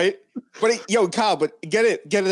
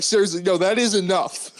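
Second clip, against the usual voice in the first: mock stern; 2 semitones higher than usual. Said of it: "Why did I go sterner with it?".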